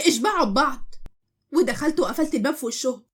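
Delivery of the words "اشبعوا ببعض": curt brush-off, rising at the end on اشبعوا; a short dismissive snap. Acted. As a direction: toss off اشبعوا ببعض and walk away. She snaps and slams door.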